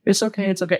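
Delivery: high, gentle mock soothing; coddling. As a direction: imitate a woman comforting her broken fiancé. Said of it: "coddles him".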